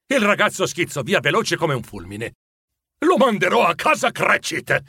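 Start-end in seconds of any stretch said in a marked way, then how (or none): 3.0-4.8 higher-pitched, self-satisfied announcement; exclaim, delighted with your own plan; pleased exclamation. Acted. Scrooge planning a gift for Cratchit, pleased. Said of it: "esclamò Scrooge, sfregandosi le mani compiaciuto".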